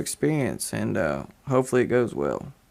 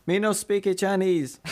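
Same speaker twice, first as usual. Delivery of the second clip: higher-pitched put-on foreign accent; joking pidgin-English accent; mock broken-English accent; 5 semitones higher than usual. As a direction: play dumb in a mock Chinese accent. Playing stupid with mock broken English.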